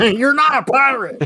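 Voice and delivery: high laughing squeal. Retold or imitated. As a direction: laugh through the line, high-pitched. Quotes the Dodgeball pirate scene.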